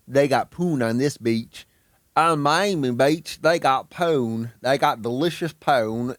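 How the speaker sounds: Scott Man impression. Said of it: "the best Scott Man impression I can do".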